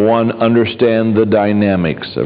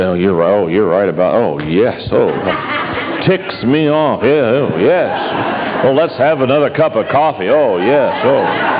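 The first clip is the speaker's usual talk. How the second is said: soothing agreement. Retold or imitated. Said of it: "I learned to say".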